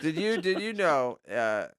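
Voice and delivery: halting, tipsy-sounding stumble over the words. Real, not acted. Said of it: "Why do you sound drunk?".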